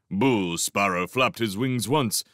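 plain reading voice

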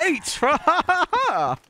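robot saying binary. Pretend. Reading letter H aloud.

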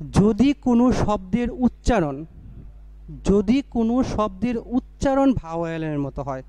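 যদি কোনো শব্দের উচ্চারণ said slowly with a lift on যদি; slow stressed new rule. Shown as a demonstration. Teacher stating the new rule to students, slow and deliberate. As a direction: spell out the new rule slowly, weighing each word. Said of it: "আমরা এভাবে বলবো".

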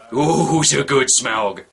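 cooing like to a puppy; baby talk to a pet. Pretend. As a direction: coo it like praising a good dog. Talking to dragon like a pet.

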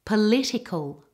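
"Political" with all the stress on the second syllable. Shown as a demonstration. Teacher models it after "Ready?", second-syllable stress on "Political". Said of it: "with excellent stress and vowels".

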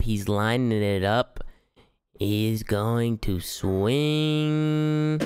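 hushed slow golf commentary building to a high excited call; golf commentator. Pretend. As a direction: call the putt like a TV golf announcer. Mock golf commentary on putt.

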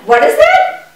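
high, sudden squeak of alarm; startled. Acted. Child spotting a bee, squeaking in alarm. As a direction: jump at the sight of a bee.

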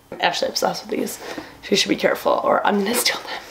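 conspiratorial stage whisper; hushed, sharing a secret. Real, not acted. Sneaky aside about the gift.

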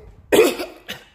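loud hacking cough, real; harsh cough. Real, not acted. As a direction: cough hard from the burning throat. Burning pepper, can't swallow.

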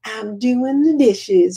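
put-on drawn-out, slow Southern accent. Imitating the dishwashing diva at her dishes, slow Southern accent. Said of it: "using this little Southern accent".

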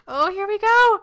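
high, loud nervous burst; high loud nervous squeal before going on stage; nervous excitement. Real, not acted. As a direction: blurt it out high and loud with jitters. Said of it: "I'm so nervous".

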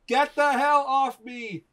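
high, drawn-out mock outrage; hammed-up cursing. A narrator's reading. Wounded Colton to the man stitching him, hammed-up cursing. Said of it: "I cursed".

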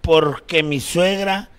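put-on slow, drawn-out drunk talk; drunk compadre. Drunk compadre proposing to keep partying, drunk and slow. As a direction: drag the words out with tipsy pauses. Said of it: "De borrachos".

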